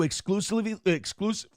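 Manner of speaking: hiccups while reading; hiccuping. Real, not acted. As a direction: read through the hiccups. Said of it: "God, I'm hiccuping".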